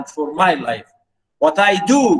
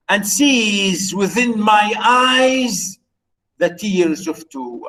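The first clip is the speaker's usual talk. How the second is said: slow poem reading; 3 semitones higher, slower than usual. Acted. Lecturer reciting the sonnet.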